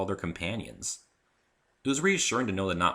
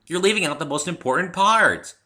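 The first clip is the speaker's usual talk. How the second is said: much higher, bouncy call of a nickname; bubbly Pinkie voice; 11 semitones higher, 9 dB louder than usual. Acted. Pinkie calling Rainbow by a cute nickname, high and bouncy. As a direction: sing out the nickname.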